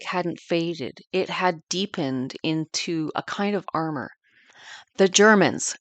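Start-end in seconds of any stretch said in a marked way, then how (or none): 5.0-5.8 a louder mock snap, understated; snapped. Grandmother snapping at the Germans, imitated and louder. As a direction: bite the words off like an old grudge. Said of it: "she snapped".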